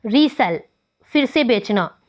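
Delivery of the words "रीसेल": रीसेल with secondary accent on री, primary on सेल; secondary stress on री. Shown as a demonstration. Teacher demonstrating resell, secondary stress on री in रीसेल. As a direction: give both syllables of रीसेल weight, main stress second. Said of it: "secondary accent री पे use हुई है".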